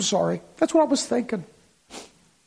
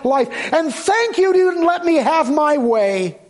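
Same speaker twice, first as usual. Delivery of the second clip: higher, louder impassioned sermon; fervent preaching; 4 semitones higher, 4 dB louder than usual. Real, not acted. Preacher urging the congregation to give thanks, impassioned and louder. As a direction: press the congregation with rising fervor.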